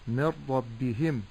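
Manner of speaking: من ربهم slowly, ending in a stretched heem; lengthened hā. Shown as a demonstration. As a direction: drag the hi at the end of من ربهم. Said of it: "هذا النطق الخطأ". («من ربهم» بمدّ الهاء ببطء)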